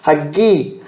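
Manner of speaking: "Ha, gi" with the weight on "gi"; light "ha", stressed hard-G "gi"; stress on second syllable. Shown as a demonstration. Teacher showing where the accent falls, stress on "gi". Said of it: "Essa vai ser a sílaba tônica".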